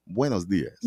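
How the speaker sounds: a friendly, warm "Buenos dias"; nicely. Shown as a demonstration. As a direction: greet them warmly in Spanish. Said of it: "they say it so nicely".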